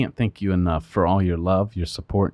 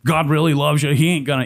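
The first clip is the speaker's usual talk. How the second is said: imitating an attorney's higher-pitched persuasion; retold coaxing, voice lifted to win him over; trying to convince; 6 semitones higher, faster than usual. Attorney tries to talk client out of pleading guilty, convincing. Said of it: "trying to convince me".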